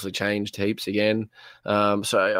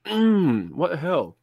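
talking through a mouthful; words round a bite of food; mouth full; 7 semitones higher, slower than usual. Real, not acted. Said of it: "are you eating dinner right now?".

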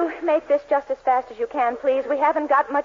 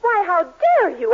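indignant; 4 semitones higher, slower than usual. Acted. Rich wife confronts the rival girlfriend, indignant and slow. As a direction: take offence, drawing it out. Rivals quarrel over Dennis.

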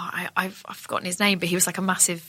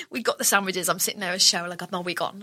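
ordinary talk

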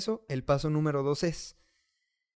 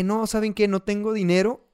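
emphatic self-correction; 6 semitones higher, 5 dB louder than usual. Retold or imitated. Catching himself mid-excuse.

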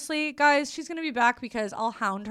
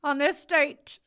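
slightly hammed-up formal salutation, higher; mock stiff greeting; 5 semitones higher, 3 dB louder, slower than usual. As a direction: tease with a put-on ceremonious greeting. Teasing her with imagined stiff greeting.

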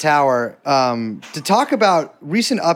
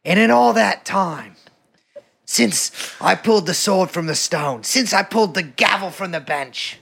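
put-on goofy British accent; 3 semitones lower, 3 dB quieter than usual. Host narrating an Old Bailey skit as a bewigged judge, goofy British accent. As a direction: play a mock-solemn old British judge, taking your time. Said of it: "Have you done your goofy British accent yet?".

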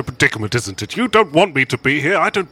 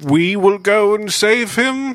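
laughing; 7 semitones higher, slower than usual. Real, not acted. Player giggles, slow reply.

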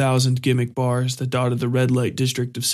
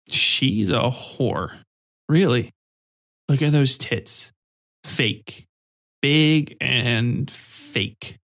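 put-on drunken leer; much slower than usual. A narrator's reading. Drunk Kato sneering at passing women, slow slurred leer. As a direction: let the drunk savor each insult slowly.

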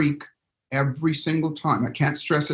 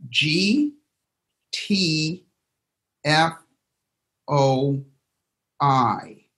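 each letter "G", "T", "F", "O", "I" said alone with long pauses; spelled out letter by letter; much slower than usual. Shown as a demonstration. Coach spells out the letters for the group, with a pause after each. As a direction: dictate the letters one at a time. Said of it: "write this down".

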